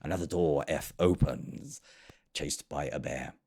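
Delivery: mock-archaic recital with lisped endings; hammed-up olde English, slowing and dropping; mock Shakespeare. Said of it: "it's not Shakespeare".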